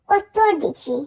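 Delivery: "quattordici" with tt held as dental ত-ত; double dental t. Shown as a demonstration. Teacher explaining double t, held dental "quattordici". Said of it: "দুইবার ত এর মতো করে উচ্চারণ করব".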